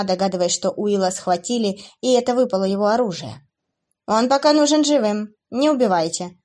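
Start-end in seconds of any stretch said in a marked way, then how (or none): 4.1-6.4 raised, firm command to the demons; commanding order. Acted. Demoness ordering her demons, commanding tone. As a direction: order them to keep him alive. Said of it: "приказала Отелло".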